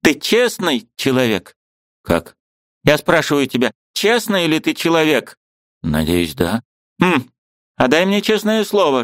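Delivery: put-on high, fussy old woman; a bustling old aunt, pitched high; old aunt's voice. A narrator's reading. Old aunt shooing the niece, high fussy voice.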